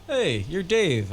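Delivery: slow, high-pitched drawn-out greeting; lightly voiced film star, stretching the words; Johnny Depp. Star recognizing Dave in a dream, lightly voiced. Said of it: "He's like".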